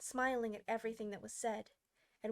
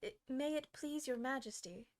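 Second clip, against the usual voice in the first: humble; 3 semitones higher than usual. Acted. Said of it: "in a very humble tone".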